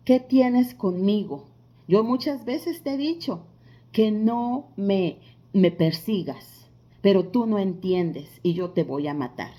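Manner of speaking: slow, mildly acted possessed woman's threat; big manly voice. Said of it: "una vocesota fuerte, gruesa".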